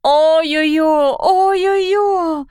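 slow, high, crying lament; wailing. Acted. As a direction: moan it like a heartbroken creature. Sisu wailing over the stone.

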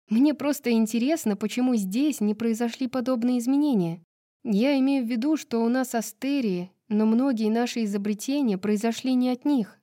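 put-on lightly animated young-woman dialogue; chatty heroine.

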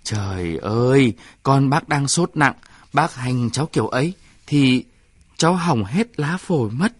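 put-on shocked at how the boy is treated; kêu lên hốt hoảng; alarmed exclamation. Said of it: "kêu lên".

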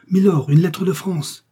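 high, loud, drawn-out announcement; calling out. A narrator's reading. Patrick enters with a letter for milord, calling out. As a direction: call the news across the room, slowly. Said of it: "entrait dans la salle en criant".

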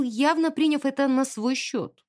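usual speaking voice

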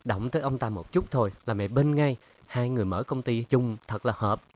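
mocking. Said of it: "Ngọc Trâm mỉa mai".

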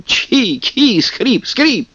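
high sneezes and creaks rising; kikimora chorus. A narrator's reading. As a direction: chirp the sneezes like swamp sprites. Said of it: "все остальные хором".

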